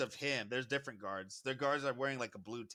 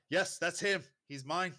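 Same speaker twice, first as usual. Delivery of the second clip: raised, higher voice of an owner; emphatic claim; 5 semitones higher, 4 dB louder than usual. Acted. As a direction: insist loudly to the guard. Owner claims captive before guard.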